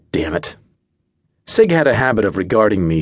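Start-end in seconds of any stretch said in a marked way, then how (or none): 0.1-0.6 hushed, breathy damn it under the breath; a soft whisper of self-reproach; whispered curse. A narrator's reading. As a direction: curse to yourself so no one hears. Narrator's private curse.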